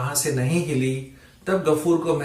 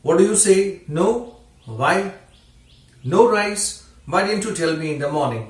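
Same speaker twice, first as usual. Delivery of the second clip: irritated father; 5 semitones higher, much slower than usual. Acted. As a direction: scold the silent daughter. Father scolds silent daughter.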